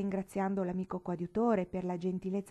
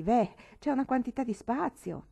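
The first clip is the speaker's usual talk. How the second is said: higher and louder; cry; 6 semitones higher, 6 dB louder than usual. A narrator's reading. Nancy insisting there is plenty of space, loud cry. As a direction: call it out heartily. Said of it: "gridò Nancy".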